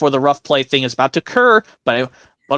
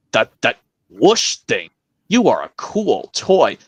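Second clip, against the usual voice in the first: Woody voice. Acted. Woody encouraging Buzz.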